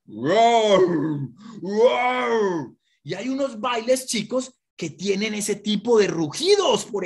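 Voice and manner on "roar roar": growling animal roar; big cat roar. Shown as a demonstration. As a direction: roar like a tiger. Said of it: "a esos movimientos le pusimos voces".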